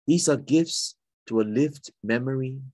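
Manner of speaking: measured poem recital with pauses between phrases; poetry reading. Acted. Poet reading a poem of Singapore's places and heritage, measured recital. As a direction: read your poem aloud, phrase by deliberate phrase.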